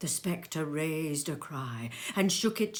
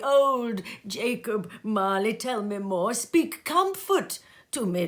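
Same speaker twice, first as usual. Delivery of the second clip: imploring; 4 semitones higher, 6 dB louder than usual. Acted. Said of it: "he said imploringly".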